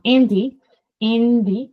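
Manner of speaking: "Andy", its N running into a clear D; plain dental N in "Andy"; N before D. Shown as a demonstration. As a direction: say "Andy" with the N on the tongue tip, before the D. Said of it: "the sound N and the letter N".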